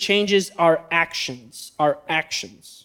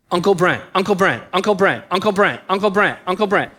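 put-on quick chanted repeats, lightly childlike; a kid rattling off the words for a treat; toddler reciting. Nephew finally says Uncle Brent, in quick cheerful repeats. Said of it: "It's perfect enunciation".

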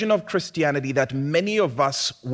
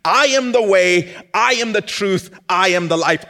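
I am the way, I am the truth, I am the life, each I punched loud and high; loud proclamation; 8 semitones higher, 7 dB louder than usual. Acted. Pastor proclaiming Jesus's words to the congregation, loud and fervent.

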